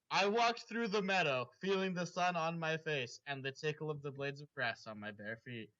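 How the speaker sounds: dramatic read-aloud of a fanfic; story reading. Acted. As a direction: narrate it like the opening of a novel.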